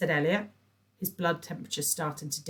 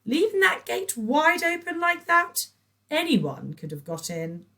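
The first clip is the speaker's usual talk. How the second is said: nagging; 13 semitones higher, 7 dB louder than usual. A narrator's reading. Patricia nags.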